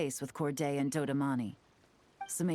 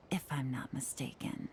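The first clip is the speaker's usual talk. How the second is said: soft whispered afterthought; sly whisper; 3 semitones lower, 6 dB quieter than usual. Acted. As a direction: slip it in quietly and knowingly. Sly aside while confronting smugglers.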